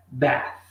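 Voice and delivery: bath with tongue between teeth, blowing air; teacher demonstrating English th; clear TH demo. Shown as a demonstration. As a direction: show the th in bath. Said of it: "eu tô fazendo um sonzinho um pouco diferente".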